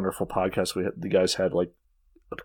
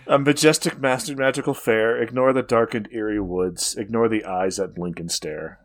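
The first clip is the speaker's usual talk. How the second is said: creepy carnival barker reciting verse; horror host. Acted. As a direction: lure them into the dark fair. Rhymed spooky fair intro.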